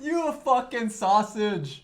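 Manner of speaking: put-on slow British accent, drawn out through laughter; laughing slow Paddy Pimblett impression. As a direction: stretch each word like the UFC fighter, laughing. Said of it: "Il dit ça, ça me fait trop rire".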